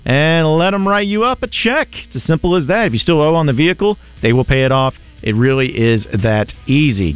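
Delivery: lively host-read car dealer spot; radio ad read. Acted. Radio host pitching a Chevrolet dealer to listeners, upbeat ad read. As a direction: sell it with punched key phrases. Live sponsor read on air.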